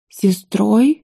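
a touch of horror, asking back; mild horrified echo. A narrator's reading. Mother, shocked by the news, asks back in mild horror. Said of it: "в ужасе переспросила она".

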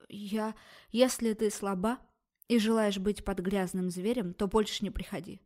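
ordinary delivery

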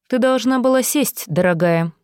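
silky threatening villain; menacing villain. Acted. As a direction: purr the threat with mock affection. Villain voiced by narrator.

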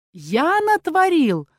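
высокий протяжный крик; заори возмущённо, растягивая слова; возмущённый ор. A narrator's reading. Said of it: "заорал тот". (орать, перекрикивая спорящих)

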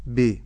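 "ب" as be, vowel slanted; slack kasra. Shown as a demonstration. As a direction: let the i of "ب" sag to e. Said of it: "ولا أقول ب". ("ب" بكسرة مائلة)

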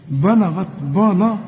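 بلغت said with the غ weakened, like بلا; wrong pronunciation. Retold or imitated. Teacher mimicking student's mistake, mild mock. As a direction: imitate the student's faulty بلغت. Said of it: "تنفع بلا دي؟".

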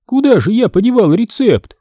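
high witch voice, searching; muttering witch. A narrator's reading. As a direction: fuss like a cackling witch. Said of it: "приговаривая". (высокий голос ведьмы)

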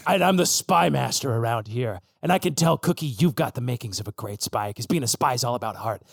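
lightly voiced low spymaster; a hint of a seasoned mentor; grizzled spy dog.

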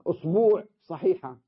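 أصبوع said usbuuʕ with a long u; أصبوع, stretch the vowel before the ʕ; long u variant. Shown as a demonstration. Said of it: "فيها عشر لغات". (أصبوع بمد الضمة)

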